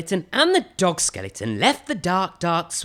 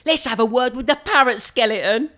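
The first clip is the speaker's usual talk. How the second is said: higher, bright voice; little skeleton voice; 8 semitones higher, 5 dB louder than usual. Acted. Little skeleton wants to talk to the parrot. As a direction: cheerfully propose it.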